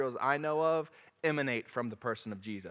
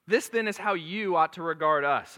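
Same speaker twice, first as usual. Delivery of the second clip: put-on baby voice; 3 semitones higher, 5 dB louder than usual. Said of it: "I got baby voice going".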